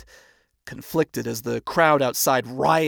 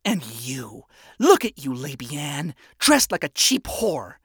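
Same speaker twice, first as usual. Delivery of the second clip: venomous. Acted. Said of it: "Vaggie venomously spat".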